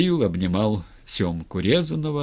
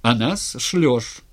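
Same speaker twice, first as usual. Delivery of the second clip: high, loud accusing tirade; shouted protest; 6 semitones higher, 5 dB louder than usual. A narrator's reading. Razin on his knees accusing the tsar, shouting. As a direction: hurl accusations in a raised voice. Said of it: "закричал с колен Разин".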